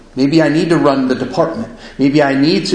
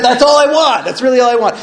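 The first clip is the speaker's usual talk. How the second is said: mock whiny plea; 9 semitones higher, faster than usual. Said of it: "something like that".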